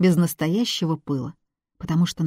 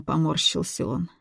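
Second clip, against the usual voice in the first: ordinary delivery, nothing marked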